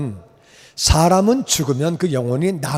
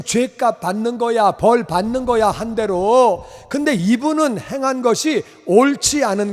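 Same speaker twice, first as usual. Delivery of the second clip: heated scolding; 5 semitones higher than usual. Retold or imitated. Robber scolding the other robber.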